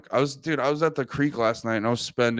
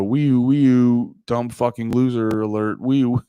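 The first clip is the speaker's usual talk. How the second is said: mock siren; 3 dB louder, slower than usual. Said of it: "I was about to retweet it and go".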